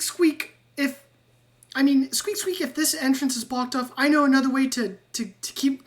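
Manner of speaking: squeaky rat Ratrick. Acted. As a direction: chatter like an eager little rat. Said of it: "and he'll go".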